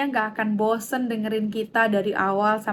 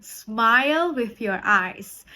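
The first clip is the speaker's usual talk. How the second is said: slow instruction; 3 dB louder, much slower than usual. Shown as a demonstration. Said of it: "facial expression".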